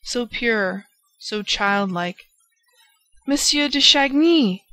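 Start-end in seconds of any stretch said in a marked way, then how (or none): 3.3-4.6 bright, raised glad call of greeting; cried gaily. A narrator's reading. Old lady greeting her visitor with a glad cry. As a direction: welcome him with a happy cry. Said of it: "she cried gaily".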